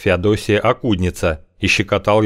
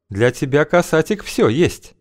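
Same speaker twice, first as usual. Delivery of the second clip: high, sly woman's voice; 8 semitones higher than usual. Acted. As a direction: purr it, way up high. Feodosia's voice held.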